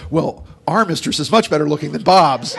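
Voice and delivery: punchline half laughed out; punchline laughing. Retold or imitated. Joke-teller laughing through the wife's punchline. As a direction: deliver it, cracking up. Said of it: "looks over and she goes".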